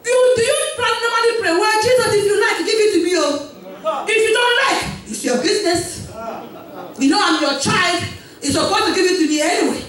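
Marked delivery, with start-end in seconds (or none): 1.5-9.8 mock careless prayer.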